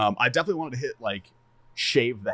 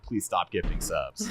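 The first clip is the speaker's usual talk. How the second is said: half-serious plea; 4 semitones lower, 3 dB quieter, slower than usual. Retold or imitated. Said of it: "half baiting, half serious".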